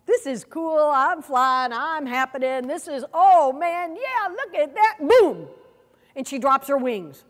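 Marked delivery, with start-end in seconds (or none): 0.0-5.5 bouncy, gleeful little-bird voice, rising on the cheers; a lightly voiced baby eagle thrilled to be flying; excited eaglet. The eaglet riding its mother's wing, excitedly. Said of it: "the little eaglet is going".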